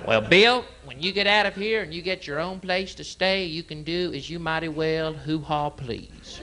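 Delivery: high folksy lecturing dad; mock dad lecture. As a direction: play the stern dad.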